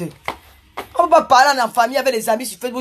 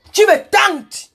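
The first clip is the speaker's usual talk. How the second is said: slow and higher, drawn out; hammed-up flirty taunt; playful teasing; 7 semitones higher, 4 dB louder, much slower than usual. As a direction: tease her, stretching each word. Mock seductive teasing line.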